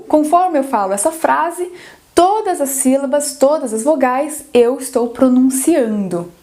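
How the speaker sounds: "todas as sílabas, todas as vogais" with every vowel sounded; every syllable pronounced. Shown as a demonstration. Teacher demonstrating Portuguese pronunciation, every syllable of "todas as vogais" fully sounded. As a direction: articulate each syllable of "eu estou pronunciando" in full. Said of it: "na minha pronúncia aqui do português".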